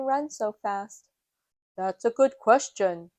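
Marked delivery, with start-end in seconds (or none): 1.8-3.1 lightly voiced hero, a bit louder; Super Potato. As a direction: answer like a confident superhero. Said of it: "Super Potato replies".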